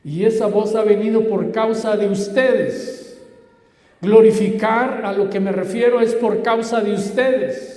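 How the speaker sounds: preaching. Real, not acted. Preacher telling listeners it is for their sake, emphatic preaching. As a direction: press it home to the congregation.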